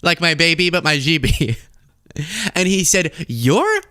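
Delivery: high-pitched, giddy parody storyteller; mock Trump retelling. Host parodies Trump retelling his chat with Xi, high and giddy. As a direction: ham it up like a bragging gossip.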